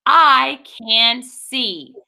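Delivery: title read very slowly. Shown as a demonstration. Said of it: "this book is called".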